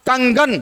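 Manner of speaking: कंगन with the nasal as velar ng: kang-gan; ng sound. Shown as a demonstration. Teacher showing students which nasal sounds, ng in कंगन. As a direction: dwell on the ng inside कंगन. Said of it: "ng का उच्चारण हो रहा है".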